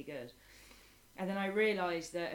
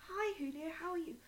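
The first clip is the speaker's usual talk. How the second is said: teacher voice; 12 semitones higher than usual. Retold or imitated. Teacher greeting a young pupil.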